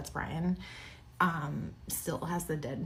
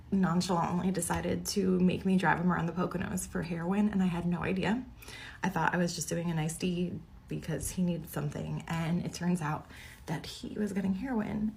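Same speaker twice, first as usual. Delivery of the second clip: shaky nervous voice, slightly raised. Real, not acted. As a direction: voice shaking from shock. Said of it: "my voice is shaking".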